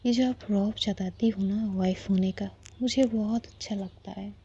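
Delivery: whispered reassurance; a soft whispered declaration to the wife; tender whisper. Acted. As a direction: breathe it lovingly into her ear.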